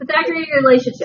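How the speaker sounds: holding back laughter, quick, high, stifled laugh. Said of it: "I can't say it without laughing now".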